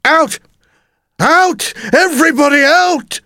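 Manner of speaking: high, urgent panicked shout. A narrator's reading. Teacher emptying the classroom at the dinosaur, high urgent shout. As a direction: shout high to clear the room. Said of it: "His teacher had shouted".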